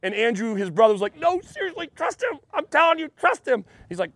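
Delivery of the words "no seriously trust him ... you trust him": high-pitched, hushed urging, imitated; urgent pleading. Andrew urging his brother to trust Jesus, urgent pleading. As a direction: play an insistent brother, voice up high and light.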